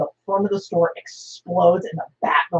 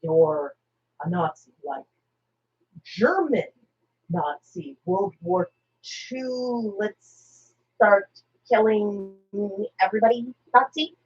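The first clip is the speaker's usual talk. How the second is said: slow, drawn-out Joker disbelief; 5 dB quieter, slower than usual. Retold or imitated. Joker turning on Red Skull, slow and incredulous. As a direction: let it dawn on him slowly. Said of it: "he goes".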